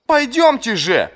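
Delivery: high, slow urgent call; shouting. A narrator's reading. Captain shouting at the strolling major to hurry. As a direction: call out to hurry him along. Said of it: "крикнул Джизаль".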